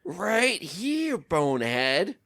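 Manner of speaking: high sneering taunt; lightly voiced skeleton. Voicing Stalfos taunt.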